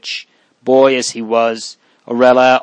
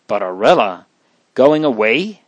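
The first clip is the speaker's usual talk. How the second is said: bewildered. Acted. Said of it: "asked the bewildered child".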